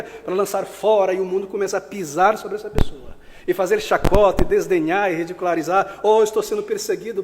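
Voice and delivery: loud, driving pulpit delivery; forceful preaching. Acted. (pregação veemente, em voz alta)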